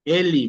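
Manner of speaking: "Eli" with the last vowel sounded as ee; final E as I. Shown as a demonstration. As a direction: model "Eli" ending in a clear i sound. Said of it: "¿Por qué yo pronuncio Eli?".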